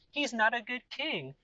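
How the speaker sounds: high, proud, boastful king voice; arrogant king. Acted. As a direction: play the smug king who only cares about money.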